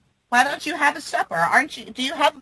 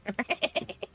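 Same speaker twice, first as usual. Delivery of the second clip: witch laugh; 13 dB quieter than usual. Real, not acted. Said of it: "your little witch laugh".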